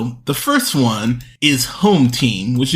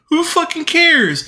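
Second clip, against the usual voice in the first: high, drawn-out exasperation; real exasperated cry; exasperated outburst; 14 semitones higher than usual. Real, not acted. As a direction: throw it out high and slow, fed up. Outburst at film's indifference.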